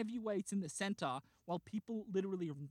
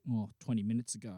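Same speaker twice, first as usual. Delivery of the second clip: casual cop answer; 7 semitones lower, faster than usual. Retold or imitated. Casual officer's answer in retelling.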